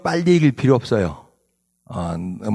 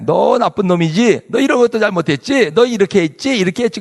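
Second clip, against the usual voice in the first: higher-pitched, mildly hammed-up accusations; mock accusing; 4 semitones higher than usual. Slanderers accusing the psalmist, mock accusing. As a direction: pile on the blame, lightly acted. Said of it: "나쁜 말 하는 게 slander".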